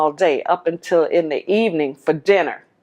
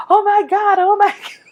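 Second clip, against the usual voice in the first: mother's shock; 5 dB louder than usual. Retold or imitated. Mother grasps her chest in shock.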